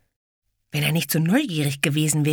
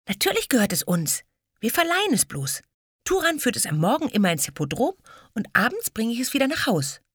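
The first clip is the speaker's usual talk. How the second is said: put-on proud girl; 9 semitones higher, faster than usual.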